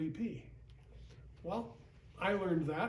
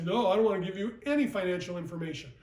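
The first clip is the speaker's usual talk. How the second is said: louder, quicker flat no; firm refusal; 6 dB louder, faster than usual. Retold or imitated. Trainer voicing a client who bluntly refuses, louder. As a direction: shut the request down hard.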